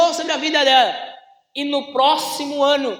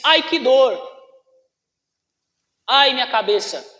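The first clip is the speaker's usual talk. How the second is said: put-on child crying out; 4 dB louder than usual. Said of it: "o menino grita e diz".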